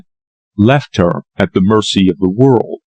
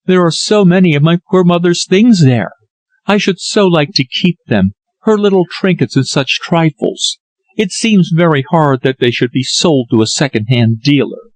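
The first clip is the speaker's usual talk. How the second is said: put-on higher, mournful young woman; a hint of grief in a higher voice; Lily, sorrowful; 6 semitones higher than usual. Lily mourns mother's things.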